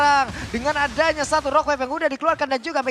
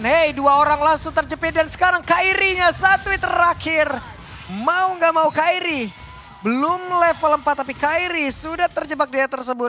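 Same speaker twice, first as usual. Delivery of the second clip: hype play-by-play; 5 semitones higher, 5 dB louder than usual. Real, not acted. Live play-by-play call.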